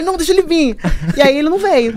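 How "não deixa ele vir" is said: a lighter, more casual dare; calmer dare. Shown as a demonstration. Tossing off the dare to friends, casually. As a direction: say it like you don't care.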